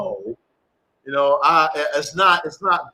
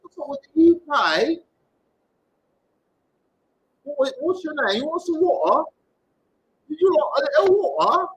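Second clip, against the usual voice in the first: lightly voiced chirpy Brit, higher; a hint of a cheery British voice; mock British newcomer; 6 semitones higher than usual. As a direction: play a new arrival from the UK. Voicing a new UK member.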